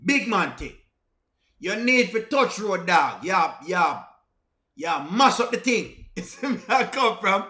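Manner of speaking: broad Jamaican Patois; heavy Jamaican accent, punchy phrases. Shown as a demonstration. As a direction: talk to him straight in a Jamaican accent. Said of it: "in my Jamaican accent".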